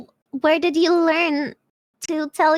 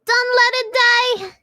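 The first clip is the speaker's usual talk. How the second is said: loud, higher, dragged out rallying cry; rallying shout; 7 semitones higher, 6 dB louder than usual. Real, not acted. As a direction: yell at chat to keep the hype alive. Rallying chat to keep hype.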